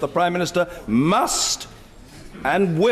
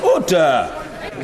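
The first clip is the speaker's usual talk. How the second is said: shouting order order; 2 semitones higher, much slower than usual. Real, not acted. Speaker calling the House to order.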